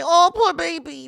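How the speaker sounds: high, slow mocking coo; mock pity. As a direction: sneer it like cooing at a crybaby. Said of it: "And now you're gonna cry".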